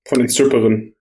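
blocked nose from a cold; talking through a stuffy nose. Real, not acted. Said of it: "Sorry, ich bin ein bisschen erkältet".

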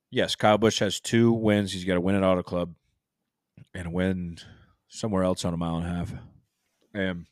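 words around a mouthful of berries; chewing while talking. Real, not acted. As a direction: keep chewing as you talk. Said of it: "I should really stop talking while I'm eating".

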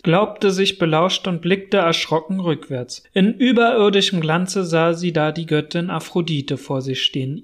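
measured storybook reading, steady and even; story narration. A narrator's reading. Narrator reading the Europa myth to listeners, calm storytelling. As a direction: tell the old myth as a tale, giving each sentence its weight.

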